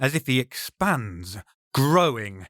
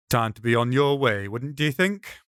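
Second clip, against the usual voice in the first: calm with force. Acted. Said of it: "The rabbi's voice is calm, placid, but there's a force behind it".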